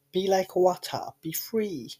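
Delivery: lightly voiced martial-arts master impression; a hint of a kung fu sage, fading at the end; Bruce Lee. Joker quoting a film star to co-host, light impression. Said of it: "that's what Bruce Lee used to say".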